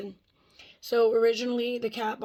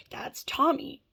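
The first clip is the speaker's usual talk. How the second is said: higher, whispered mock insistence; insistent mock claim; 6 semitones higher, 4 dB louder, slower than usual. Strangers insisting the cat is theirs, higher mock whisper. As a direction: push the name like you're sure it's yours.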